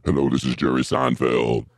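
Jerry Seinfeld voice. Acted. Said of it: "you sound like a black guy that's in witness protection program".

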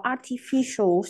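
"artificial" slowly, stressed on FI; stress on third syllable. Shown as a demonstration. Teacher explaining the answer to students, "artificial" stressed on the third syllable. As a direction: lean on the FI in "artificial". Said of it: "thứ ba".

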